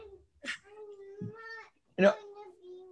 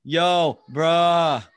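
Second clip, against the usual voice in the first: casual slang greeting; 8 dB louder than usual. Shown as a demonstration. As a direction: greet like a street pal. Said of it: "Or, um".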